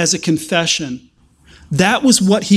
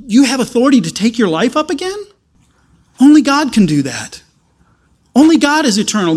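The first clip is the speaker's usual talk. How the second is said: excited realization; 4 semitones higher than usual. Retold or imitated. Thomas gasping out to risen Jesus, high and excited.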